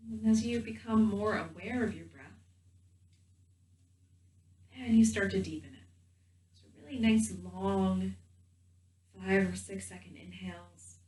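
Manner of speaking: gentle guided meditation voice with long pauses. Real, not acted. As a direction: guide them calmly into the body, leaving space between phrases.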